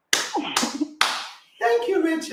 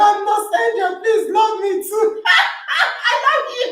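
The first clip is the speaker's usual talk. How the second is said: playful laughing; 4 semitones higher than usual. Real, not acted. Playful dance-time shoutouts.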